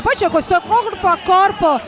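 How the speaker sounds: normal talking voice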